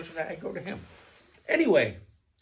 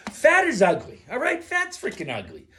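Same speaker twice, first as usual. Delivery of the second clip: loud, emphatic, pitched up; emphatic rant; 5 semitones higher, 4 dB louder than usual. Real, not acted. Ranting at viewers about fat, loud and emphatic. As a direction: hammer the point home loudly.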